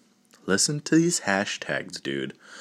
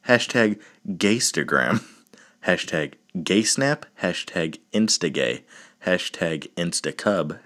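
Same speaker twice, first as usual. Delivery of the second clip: deadpan list reading. Shown as a demonstration. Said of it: "I'm just gonna read 'em".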